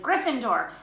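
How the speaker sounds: a fairly loud, falling call of the house; hat shouting. Acted. The Sorting Hat announcing Neville's house, a moderate shout. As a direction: announce it firmly. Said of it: "When it finally shouted".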